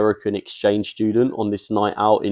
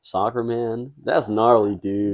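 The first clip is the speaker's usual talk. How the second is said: put-on American surfer accent; slower than usual. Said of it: "I'm Chad".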